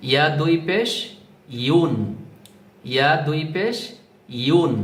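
ইউন glided from y into a rounded u; careful model of ইউন as one syllable; demonstrated pronunciation. Shown as a demonstration. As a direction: spell out ইয়া দুই পেশ on a rise, then a smooth ইউন. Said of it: "দেখে রাখুন কিভাবে আমি উচ্চারণ করছি".

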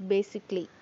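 "basically" in three syllables, BA-sic-ly; reduced syllables. Shown as a demonstration. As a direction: say "basically" with the middle A dropped. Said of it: "we will pronounce this word as".

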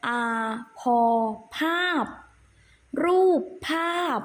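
syllable-by-syllable classroom recitation; spelling drill. Shown as a demonstration. Teacher spelling aloud for the children, measured recitation. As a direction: sound out each piece, then the word.

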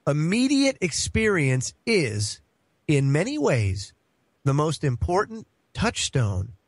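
slow, weighty reading with pauses; deliberate read-aloud. Real, not acted. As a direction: read it out slowly, phrase by phrase. Reads a principle aloud deliberately.

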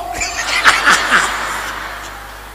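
breathy unvoiced chuckle; soft laugh. Real, not acted. Preacher laughing at his coffee joke, soft chuckle. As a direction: laugh at the punchline quietly.

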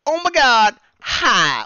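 high, loud gushing shout; excited greeting. Acted. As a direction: squeal a greeting at full volume. Excitedly reads a viewer's chat greeting.

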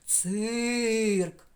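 «Цирк» протяжно, з наголосом на «и»; проспівати голосний у «Цирк» з силою. Shown as a demonstration. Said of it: "з силою голосу промовляти, проспівувати". (наголошений голосний протягнуто)

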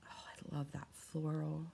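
soft whispered delight. Real, not acted. Vlogger whispers love for the floral tape. Admiring stickers, hushed.

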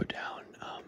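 hushed awed cave whisper. Real, not acted. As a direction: whisper softly, full of wonder.

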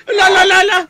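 usual speaking voice

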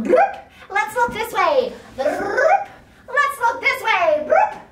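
high, loud silly calls; playful sound effect. Pretend. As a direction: play peekaboo with binoculars. Playing with binoculars.

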